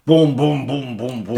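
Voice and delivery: loud, punchy Cork-accented imitation; booming mock attempt with a Cork accent. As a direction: mimic foreign words in a blunt Cork accent. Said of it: "I say it with a Cork accent".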